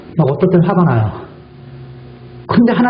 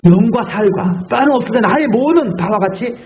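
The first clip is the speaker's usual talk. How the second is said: voice of Jesus; slower than usual. Acted. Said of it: "그 다음에 두 번째 뭐래요".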